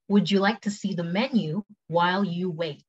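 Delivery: careful, measured model question; slow take. Shown as a demonstration. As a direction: take it slowly for learners. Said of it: "cepet sama pelan".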